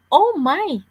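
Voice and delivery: high, loud gasp of amazement; girl staring into the opened box; disbelief. A narrator's reading. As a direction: react to the treasure in awe.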